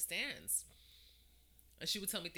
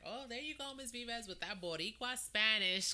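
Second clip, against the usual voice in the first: high-pitched retold ribbing; pitched-up playful scolding; teasing call-out; 6 semitones higher than usual. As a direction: imitate a Puerto Rican mom calling her out. Puerto Rican parent teasing, retold.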